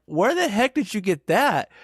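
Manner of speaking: high, loud baffled demand; acted incredulity. Reacting to mother-in-law's big pill bottle, acted incredulity.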